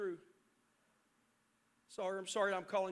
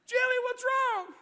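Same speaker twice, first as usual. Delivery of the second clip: high, loud, slow worried call to the daughter; dad calling back to his screaming daughter; alarmed call; 13 semitones higher, 10 dB louder, slower than usual. Retold or imitated. Parent calling to crying daughter.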